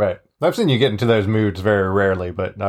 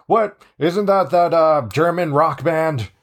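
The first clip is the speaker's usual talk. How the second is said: higher-pitched, playful confused bystander; baffled officer; 5 semitones higher, slower than usual. Pretend. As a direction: puzzle it out in mock bewilderment. Imagining the head officers' baffled reaction.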